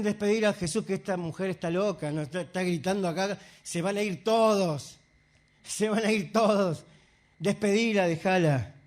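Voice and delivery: lightly voiced disciples, low and hurried; a quick, softened aside urging dismissal; disciples' urging. Disciples complain to Jesus about the shouting woman, low urging.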